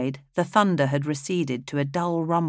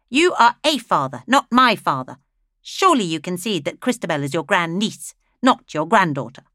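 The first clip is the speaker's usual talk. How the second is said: much higher, mocking condescension; condescending widow; 4 semitones higher, 6 dB louder than usual. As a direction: talk down to the old man. Flaminea condescends.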